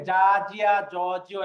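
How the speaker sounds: জা, জিয়া, জ, জিও with no puff of air; light, unforced sound. Shown as a demonstration. Teacher recalling the easier letter, জ said without pressure. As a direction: say জা lightly, throat relaxed. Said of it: "হালকাভাবে".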